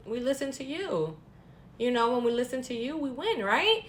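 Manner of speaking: sarcastic. Retold or imitated. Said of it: "that kind of sarcastic comment".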